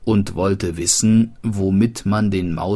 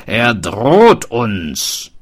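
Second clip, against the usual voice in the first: fearful warning; 2 semitones higher, 6 dB louder, much slower than usual. Acted. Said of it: "rief der Schmied".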